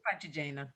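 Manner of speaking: Francigena with a long GE before the last syllable; stress on GE. Shown as a demonstration. Host offering the way she has heard it, Francigena stressed on GE. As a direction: say Francigena as fran-chi-JAY-na. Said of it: "I've always heard".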